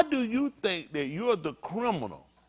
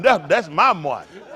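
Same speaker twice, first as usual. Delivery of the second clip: proud laughing cheer; 2 semitones lower, 5 dB louder than usual. Retold or imitated. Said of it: "You be like".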